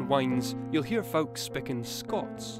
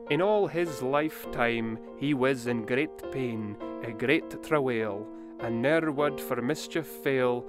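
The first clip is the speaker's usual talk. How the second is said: slow, measured verse reading in Scots; poem recitation. A narrator's reading. Quoting verse from The Bruce.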